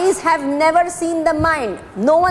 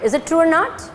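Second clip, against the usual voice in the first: usual speaking voice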